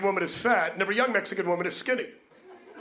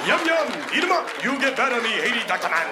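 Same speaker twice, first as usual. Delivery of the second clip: mock witch doctor; 2 semitones higher, 3 dB louder than usual. Comic mocking a Haiti doctor, hammed-up. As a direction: ham up a cartoon witch doctor.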